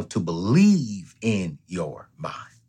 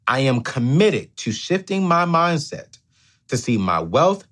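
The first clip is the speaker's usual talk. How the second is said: slow, paced for repeating; affirmation again. Real, not acted. Host leading viewers in an affirmation, slow and paced. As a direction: lead them to repeat each phrase. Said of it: "repeat after me".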